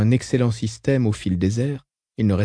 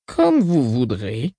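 grudging; much slower than usual. Acted. Beyonda gives in reluctantly.

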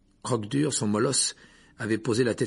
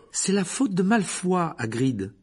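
grave; 9 semitones higher, 4 dB louder, slower than usual. A narrator's reading. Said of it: "dit Hermione avec gravité".

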